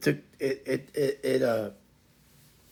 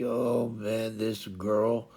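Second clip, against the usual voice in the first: low, softer exasperated aside; mock exasperation; 4 semitones lower, 4 dB quieter, much slower than usual. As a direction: sink into a resigned complaint about her. Players' reaction to wayward Dragon.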